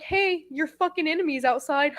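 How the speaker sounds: retold line said through a laugh. Brother announcing the enemy, laughing. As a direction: chuckle through the words. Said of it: "Like, laughing".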